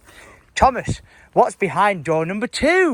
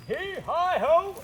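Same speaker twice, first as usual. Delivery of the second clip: effort grunts; 10 semitones higher, 3 dB quieter, much slower than usual. Real, not acted. Heaving heavy object.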